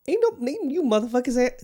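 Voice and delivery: high, loud, laughing disbelief; a real indignant laugh at his own birthday luck; laughing outburst. Real, not acted. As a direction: blurt it out half laughing at the friends who always leave. Laughing outrage at his absent friends.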